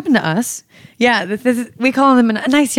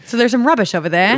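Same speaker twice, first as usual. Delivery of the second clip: quick, playful attempt at an Australian accent; 3 semitones higher, faster than usual. Shown as a demonstration. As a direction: have a go at sounding Australian. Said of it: "How is your Australian accent?".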